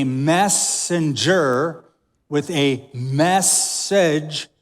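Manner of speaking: "messenger" and "message" broken slowly after MESS; stress on MESS. Real, not acted. Preacher punning on the mess, MESS stretched slowly.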